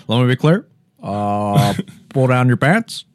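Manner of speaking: lightly voiced halting president; measured statesman impression with long "uh"; mock presidential address, hesitant pauses; Barack Obama. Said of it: "Barack and Michelle Obama's relationship".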